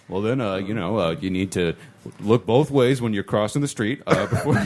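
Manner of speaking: low, measured stern-dad impression. Host mimicking the caller as dad to a student, stern dad. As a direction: lecture like a halting, stern father. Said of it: "he sounds like a stern dad".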